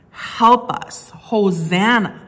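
loud, pleading crowd cry, slowing at the end; desperate cry. Acted. Preacher voicing the crowd begging to be saved, loud pleading cry. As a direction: call out for rescue, drawn out.

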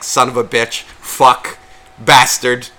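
mock yelled swearing, growing in force; retold cursing outburst. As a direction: spit out each swear separately, ending loud. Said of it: "you're literally yelling out the words".

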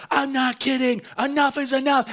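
high, loud mock yell of an angry mom. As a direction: shriek it like a fed-up mom losing it. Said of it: "She's like".

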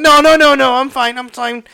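high, loud burst of denial, easing off; acted frantic backpedalling; flustered reassurance.

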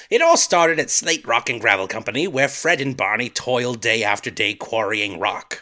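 light British narrator voice; British accent. Pretend. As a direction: read it with a British lilt. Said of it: "Do your British accent again".

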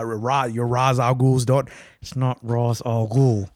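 slow scolding mom voice; angry mom voice. Real, not acted. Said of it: "He's doing the angry mom voice right now".

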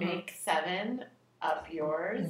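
slow slogan quote. Retold or imitated. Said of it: "It was, like, a seven up slogan".

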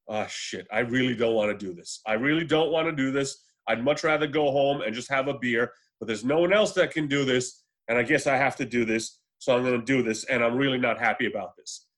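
reluctant working man. Retold or imitated. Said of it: "he can portray that working man thing".

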